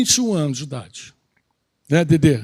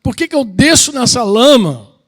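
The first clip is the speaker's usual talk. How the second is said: self-reproach; 2 semitones higher than usual. Retold or imitated. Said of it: "eu pensava assim".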